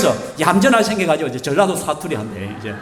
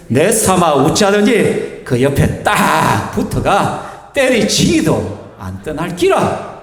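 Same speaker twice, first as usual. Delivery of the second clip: slow Gyeongsang dialect psalm reading; slower than usual. Shown as a demonstration. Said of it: "경상도 버전이 있잖아요. 한번 읽어볼까요". (경상도 사투리로 천천히 읽기)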